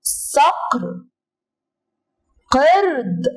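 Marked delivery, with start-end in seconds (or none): 0.0-1.1 صقر stretched very slowly, the ق held; drawn-out letter. Shown as a demonstration. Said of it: "صوت حرف القاف". (مد حرف القاف في صقر ببطء)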